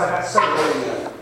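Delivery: solemn slow testimony. Real, not acted. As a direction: let each word land with weight. Testimony, emphatic conviction.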